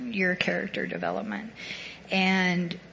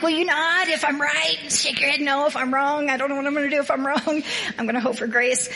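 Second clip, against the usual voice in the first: mock nervous plea; 6 semitones higher than usual. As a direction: plead playfully for a nod. Asking Tracy to nod, joking.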